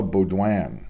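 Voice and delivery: "Baudouin" said the French way, bo-DWAN with a nasal end; French pronunciation. Shown as a demonstration. Host reading a track athlete's surname, French pronunciation. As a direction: give "Baudouin" its French sounds, not anglicised. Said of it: "I said that the French way".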